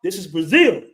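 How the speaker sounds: a local warning off the foreigner; imitating the Brazilian guy. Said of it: "He said".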